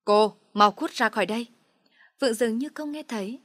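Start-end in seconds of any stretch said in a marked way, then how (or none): 0.0-1.5 loud furious order to get out; a father throwing her out, loud and furious; angry order. A narrator's reading. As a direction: bark it at her, pointing. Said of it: "Bố Quân đứng phát dậy chỉ tay".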